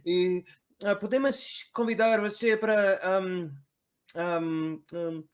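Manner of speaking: loud, high, hammed-up Mexican accent; shouty caricature of a Mexican accent; stereotypical Mexican accent. Shown as a demonstration. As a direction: stretch it out in a bad mock Mexican accent. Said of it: "shitty stereotypical Mexican accent".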